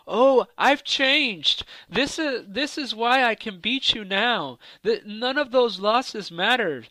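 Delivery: high-pitched mock of a rival's excuses; mocking imitation. Mocks his rival's repeated claim.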